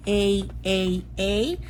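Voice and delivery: A drawn out as letter name; vowel name drill. Shown as a demonstration. Teacher modeling A for second graders, drawn out. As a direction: say the letter name A slowly for kids. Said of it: "We're gonna say them three times".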